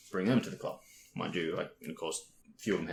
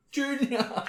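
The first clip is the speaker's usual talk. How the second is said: much higher sing-song call of Junior; teasing call; 5 dB louder than usual. Retold or imitated. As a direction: call the wrong name sweetly.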